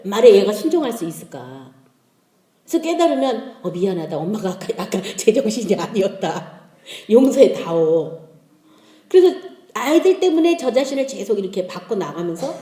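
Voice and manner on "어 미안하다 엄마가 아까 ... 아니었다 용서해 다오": imitated contrite mother, slowing at the end; apologetic. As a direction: apologize to the child in a lowered voice. Mother apologizing to her child.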